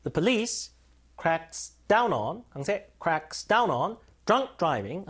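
police stressed on the second syllable, down stressed, slow. Shown as a demonstration. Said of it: "강세 뒤에요".

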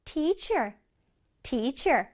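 "teacher" with a clear aspirated T; "teacher" said with care on its first sound; careful T sound. Shown as a demonstration. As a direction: release the T crisply in "teacher". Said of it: "트 발음을 유의해줘야 돼요".

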